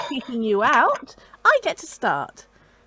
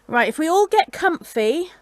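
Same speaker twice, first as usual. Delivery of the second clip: storyteller voice. Acted. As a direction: soothe them into the tale. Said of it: "It's my storyteller voice".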